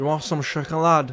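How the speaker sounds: soft, bad Scouse accent.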